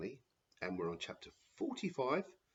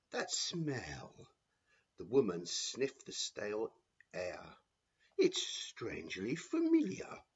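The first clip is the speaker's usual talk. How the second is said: suspicious Matron; slower than usual. Acted. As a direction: draw it out like a nosy old matron.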